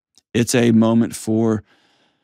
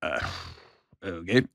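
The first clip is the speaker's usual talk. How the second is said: hesitant okay; 8 semitones lower, 10 dB quieter than usual. Retold or imitated. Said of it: "And I was like".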